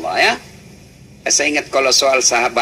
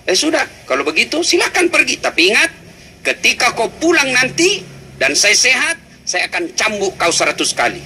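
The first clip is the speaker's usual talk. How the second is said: stern husband; 6 semitones higher than usual. Acted. Ayub answers wife, higher.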